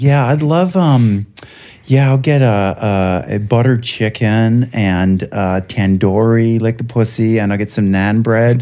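slow, lightly put-on ordering voice. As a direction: draw out the order in a slightly fake voice. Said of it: "I put on a voice and stuff".

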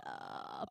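short, ordinary hesitation "uh"; a brief filler sound, as if searching for words; stuck-for-words "uh". Shown as a demonstration. Showing how it isn't meant, stuck-for-words hesitation. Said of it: "like you're stuck for words".

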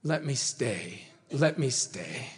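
slow, soft mild plea; lightly acted entreaty, repeated with falling tune; understated begging. Sinner begging Jesus to remain, understated slow pleading. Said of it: "begging Jesus".

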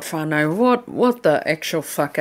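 ordinary delivery

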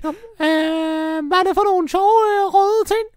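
squeaky high, loud wizard with giggles; a cackling little wizard bursting in; Louis Fox voice. Acted. Wizard Louis Fox crashing the break-in, squeaky high giggling.

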